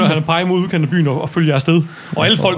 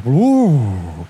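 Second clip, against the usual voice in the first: fish folk awe; 2 semitones lower than usual. Acted. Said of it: "de siger".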